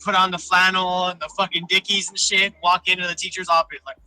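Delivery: ordinary talk, nothing marked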